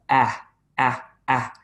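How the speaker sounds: AH as pure open airflow; short, separate AH sounds, nothing blocking; open vowel demo. Shown as a demonstration. Teacher showing students a vowel is just air, open vowel demo. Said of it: "just air coming out like".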